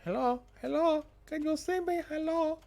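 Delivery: high, sing-song calling hello. Acted. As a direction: call out high through the glass. Calling through window.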